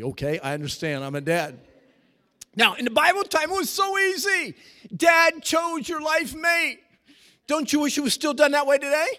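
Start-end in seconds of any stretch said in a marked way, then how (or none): 2.6-9.1 high, loud pulpit shout; fiery sermon delivery; full-force preaching. Acted. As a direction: preach it out to the back row.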